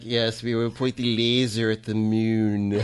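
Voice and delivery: slow, laughing villain voice; mad scientist. Retold or imitated. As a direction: play a scheming Bond-style villain. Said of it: "like in Austin Powers".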